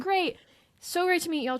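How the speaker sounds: high-pitched, put-on cheery farewell; bright goodbye. Saying goodbye to new weekend friends, cheery farewell. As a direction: re-enact a chipper parting.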